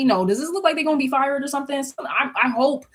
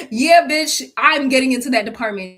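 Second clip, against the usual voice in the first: louder, triumphant gloat; 3 semitones higher, 5 dB louder than usual. Pretend. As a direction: crow over the win. Gloating over her move.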